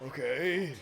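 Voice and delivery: meek okay. Acted. Guards meekly give way.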